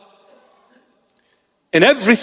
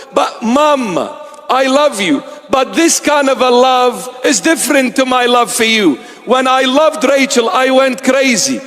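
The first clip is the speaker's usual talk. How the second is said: lovesick son, lightly voiced; 5 semitones higher than usual. Son answers his mother.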